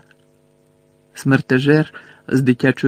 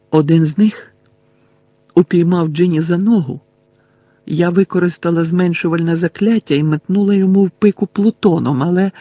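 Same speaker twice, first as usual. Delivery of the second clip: lightly voiced girl, a little higher; Luna recounting; 4 semitones higher, 3 dB louder than usual. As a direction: recount the strange ordeal as a girl.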